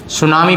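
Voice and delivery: "सुनामी" with the T silent. Shown as a demonstration. Teacher showing students how to read a difficult word, "सुनामी" with silent T. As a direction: start "सुनामी" on an S sound, no T. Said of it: "टी इसमें silent है".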